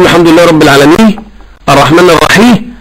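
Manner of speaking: quick recital dropping the ends of العالمين and الرحيم; non-Arab learner's error. Pretend. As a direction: imitate a learner copying العالمين as "alami". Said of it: "تخيلت لو أن رجلًا أعجميا وقف خلفه".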